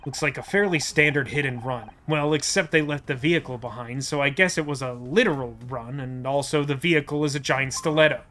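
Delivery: low, matter-of-fact detective; deadpan detective. Acted. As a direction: report the absurd as an ordinary observation. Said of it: "like, an actual detective's observation".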